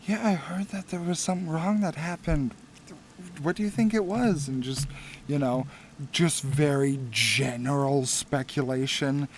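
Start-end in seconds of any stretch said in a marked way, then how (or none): 0.0-4.5 townsfolk gossip. Acted. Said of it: "some basic mutterings of".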